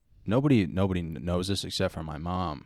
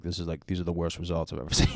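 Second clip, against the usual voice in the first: laughing doctor quote. Retold or imitated. Doctor retold laughing at bad results.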